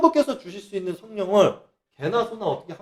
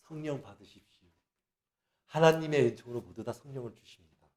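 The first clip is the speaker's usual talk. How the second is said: mock pastor blessing; 7 semitones lower, 14 dB quieter than usual. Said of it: "목사들 얘기하는 거 보면".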